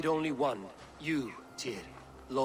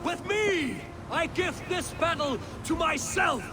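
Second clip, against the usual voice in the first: battle shout; 6 semitones higher than usual. Acted. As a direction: yell the troops forward. War leader charges into battle.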